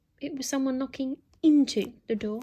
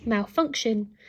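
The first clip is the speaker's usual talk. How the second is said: posh robot voice; slower than usual. Acted. Robot repeats error.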